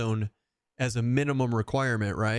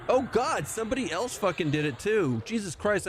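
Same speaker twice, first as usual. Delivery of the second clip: mock horror; 8 semitones higher than usual. Real, not acted. Reacting to open tabs.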